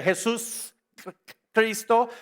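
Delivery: "Jesús Cristo" split between the s and the C; consonants kept apart. Shown as a demonstration. Preacher shows why the consonants clash, words held apart. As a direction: hold "Jesús", break, then hit "Cristo". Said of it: "No puedes decir consonante, consonante".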